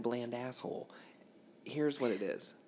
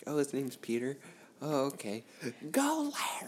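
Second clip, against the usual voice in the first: mock apology; 4 semitones higher than usual. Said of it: "I was like".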